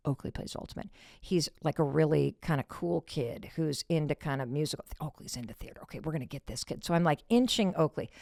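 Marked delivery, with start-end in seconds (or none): 0.1-6.8 scheming whisper. Retold or imitated. Scheming whisper about the guide.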